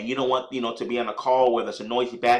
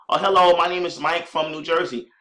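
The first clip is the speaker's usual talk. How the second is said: excited caller; 4 semitones higher than usual. Shown as a demonstration. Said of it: "Be very excited".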